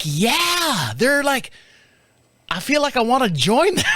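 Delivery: high, laughing Tennessee twang; mock Tennessee woman, amused and creeped out. Neighbor's wife joking she'd join the cult, laughing twang. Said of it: "she's got a little twang to her".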